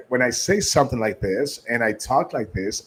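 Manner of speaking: friendly, relaxed. Shown as a demonstration. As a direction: talk in an easy, friendly way. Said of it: "I'm sounding very friendly and I'm sounding very relaxed".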